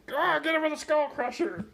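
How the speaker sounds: high-pitched mock yell; hammed-up excited shout; mock battle cry. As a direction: cheer on a silly sports attack. Mock sports cry while riffing.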